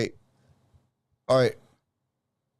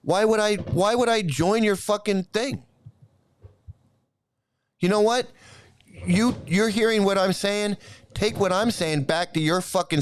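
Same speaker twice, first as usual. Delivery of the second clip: higher-pitched, exasperated scolding; real irritation, pitched up without shouting; angry challenge; 4 semitones higher than usual. Real, not acted. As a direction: confront the viewer indignantly. Keeps scolding the viewer.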